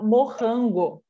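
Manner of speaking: "morrango" with a strong rolled rr in the middle; rolled r in morango. Retold or imitated. Recalling how he said strawberry as a child, rolled r. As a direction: say "morrango", doubling the r into a trill. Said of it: "comecei a falar morrango".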